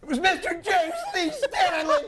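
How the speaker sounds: high, laughing showman's announcement; excited announcement. Real, not acted. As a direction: present him like a game-show host. Announcing the singing Klingon.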